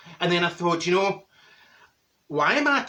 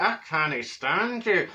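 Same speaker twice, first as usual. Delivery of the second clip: inner contempt; much slower than usual. Retold or imitated. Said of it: "in your head, you're like".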